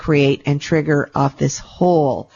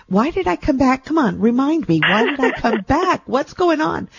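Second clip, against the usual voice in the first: self-pep talk; 9 semitones higher than usual. Retold or imitated. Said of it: "keep saying to myself, when it gets tough".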